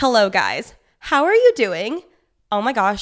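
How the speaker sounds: out of breath, winded. Greeting listeners right after finishing a workout, out of breath. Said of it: "I'm winded and out of shape".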